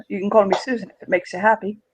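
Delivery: put-on fast, playful chuckling German-accented line; playful chuckle. Smith teases Mega with a playful chuckle. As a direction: tease him with a chuckle, quickly. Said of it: "with a playful chuckle".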